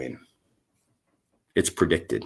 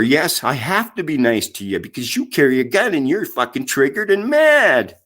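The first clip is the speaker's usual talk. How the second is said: rising fury; 4 semitones higher than usual. Real, not acted. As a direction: climb into real rage, stretching the end. Angry rant at neighbour.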